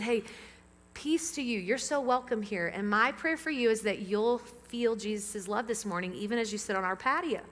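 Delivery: calm him down kindly; reassuring. Retold or imitated. Pastor retelling how he greeted an anxious visitor, gentle reassurance.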